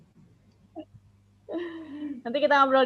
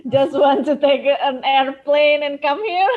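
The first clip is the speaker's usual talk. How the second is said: amused, louder through laughter; laughing; 6 dB louder than usual. Real, not acted. Host joking to participants about flying over, laughing. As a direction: tease them with a laugh breaking in.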